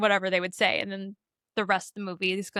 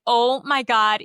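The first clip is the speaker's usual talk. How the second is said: louder, gushing excitement; excited teasing; 3 semitones higher, 7 dB louder, slower than usual. Retold or imitated. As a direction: gush at him teasingly. Molly teasing Ray, excited.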